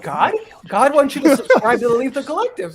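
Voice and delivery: loud, high divine proclamation; booming God voice. Retold or imitated. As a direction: announce it like God. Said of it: "We're like".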